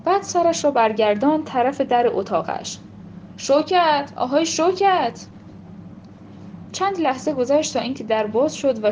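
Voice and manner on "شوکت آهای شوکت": higher, a mild call across the yard. Acted. Qasem Agha calling his daughter through the door, a mild call out.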